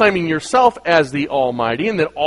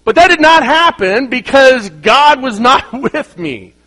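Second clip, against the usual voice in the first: higher, louder, slow through a laugh; 9 semitones higher, 8 dB louder than usual. Real, not acted. Preacher laughing at his childhood crash, slow and loud. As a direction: laugh while delivering it.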